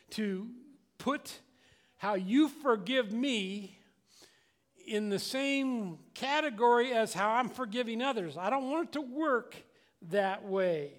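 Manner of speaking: ordinary talk, nothing marked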